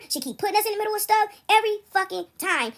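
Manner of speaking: a hint of the son's exasperation; upset son. Son venting to her at work, mildly exasperated.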